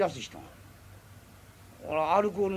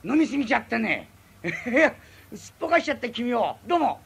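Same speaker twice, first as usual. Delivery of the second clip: sheepish laughing apology; 4 semitones higher, 4 dB louder than usual. Acted. Drunk apologizing for skipping out.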